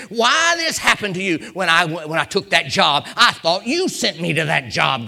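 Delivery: building, insistent preacher's cadence; impassioned preaching. Real, not acted. Preacher pressing on why hardships happened, building impassioned delivery.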